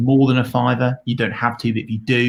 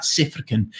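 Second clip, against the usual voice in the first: squashed, quick South African pronunciation; jokey mock South African accent; shoddy South African accent; 3 semitones higher, 3 dB quieter than usual. Shown as a demonstration. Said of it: "that was my shoddy South African accent".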